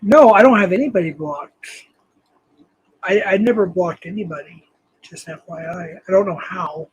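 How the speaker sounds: ordinary talk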